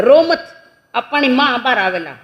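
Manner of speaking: high, loud acted reassurance; hammed-up flustered father; hushing over crying. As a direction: call out over a baby's wailing. Father acted calming crying baby.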